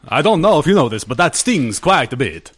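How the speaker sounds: put-on Transylvanian accent. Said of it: "vampire voice".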